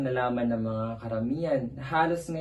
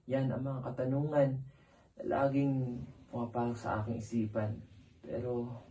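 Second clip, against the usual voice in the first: soft, sinking, puzzled sadness; troubled and downcast; 5 dB quieter than usual. Acted. Asking Pepe why things are so, downcast. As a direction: let the questions fade away softly.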